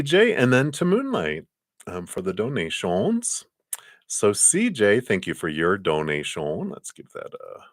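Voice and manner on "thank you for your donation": put-on a light, barely there French accent on the thanks; French imitation. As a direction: thank them with a faint mock French accent. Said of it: "That's my French imitation anyway".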